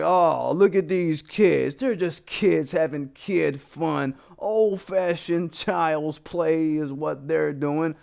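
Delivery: slow, mocking voice of an indulgent racist teacher; drawn-out fake cheerfulness, mocking the teacher excusing white kids; mock indulgent white guy. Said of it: "He'd be like".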